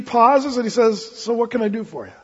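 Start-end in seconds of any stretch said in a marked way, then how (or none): 1.0-2.1 soft, patient offer of help; gentle asking. Retold or imitated. Jesus pausing to hear a mother's request, gently attentive. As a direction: ask softly, lightly voicing a kind listener.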